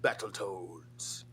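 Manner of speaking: slow, whispered "Battletoads"; hushed imitation. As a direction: breathe "Battletoads" slowly, in awe. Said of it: "when fucking Chris Chan said".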